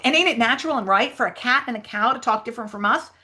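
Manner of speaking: lightly voiced character pressing a point; Huck Finn. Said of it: "read the Huck Finn lines".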